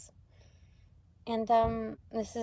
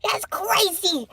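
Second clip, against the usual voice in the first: slow, laughing whisper of wonder; 9 semitones higher, 4 dB louder, much slower than usual. Real, not acted. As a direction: breathe it out amazed.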